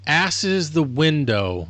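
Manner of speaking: ASS hit slow and high in "Ass is the window"; quoted movie line with clumsy emphasis; misplaced stress. Retold or imitated. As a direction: drag out "Ass is the window", leaning oddly on Ass. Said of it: "You're putting the wrong emphasis".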